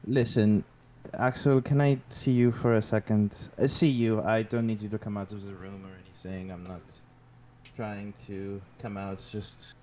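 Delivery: put-on a touch drunk and loose; tipsy. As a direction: play it slightly tipsy. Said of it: "I'm trying to sound like I'm a bit tipsy".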